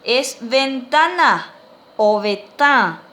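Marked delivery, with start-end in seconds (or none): 2.0-3.0 "obeta" slow and loud, nasal stressed A; nasal final A. Shown as a demonstration. Teacher repeats the word for window, nasal A. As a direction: stretch out "obeta", ending on a nasal A. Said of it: "con acento nasal en la A".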